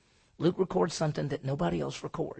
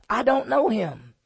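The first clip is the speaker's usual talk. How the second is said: mock denial; 7 semitones higher, 8 dB louder than usual. Peter cursing denial.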